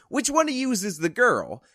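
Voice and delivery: high, tough New York Italian guy; New York Italian accent. Retold or imitated. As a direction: ask it like a Brooklyn wiseguy. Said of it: "with a heavy New York Italian accent".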